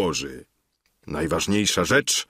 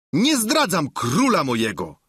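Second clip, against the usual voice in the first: Sancho odpowiada panu; 7 semitones higher than usual. A narrator's reading. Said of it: "odrzekł Sancho".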